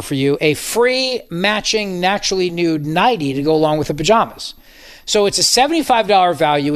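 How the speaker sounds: upbeat radio ad voice; ad read. Acted. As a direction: sell it like a host-read ad.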